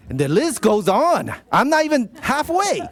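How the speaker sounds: high, amused mock exasperation; laughing aside about the long list; amused exclamation. Real, not acted. Joking about long proclamation.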